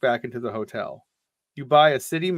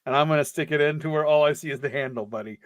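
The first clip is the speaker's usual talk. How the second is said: menacing tough guy. Acted. Threatening bellhop in read story.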